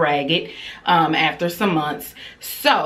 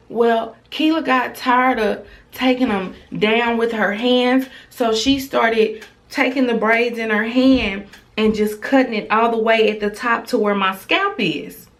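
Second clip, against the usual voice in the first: lightly voiced child, pitched higher; a hint of a child explaining to mom; imitating young daughter; 4 semitones higher than usual. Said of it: "She was like".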